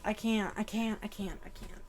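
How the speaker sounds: fading, breaking I can't; overwhelmed. Real, not acted. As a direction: trail off, near tears. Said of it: "This is making me cry".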